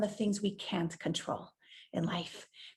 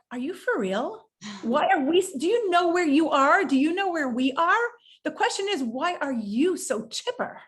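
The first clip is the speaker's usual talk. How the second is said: incredulous retort; 4 semitones higher than usual. Retold or imitated.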